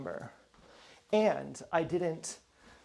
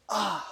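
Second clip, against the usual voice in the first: short raised "Ah!", imitating anger; mock flare-up of temper; abrupt exclamation, acting suddenly angry; sudden angry outburst; 5 semitones higher than usual. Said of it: "they're angry".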